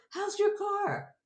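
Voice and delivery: a hint of an anxious mother; mother's voice.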